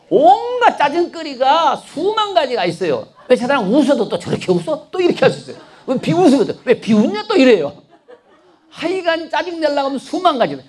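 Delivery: high, laughing list of grumbles; amused preacher laughing at grumbling. Real, not acted. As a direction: chuckle through the petty complaints.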